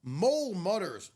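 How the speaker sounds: gentle picture-book narrator; story narration. A narrator's reading. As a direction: read it like a bedtime story. Picture book read aloud.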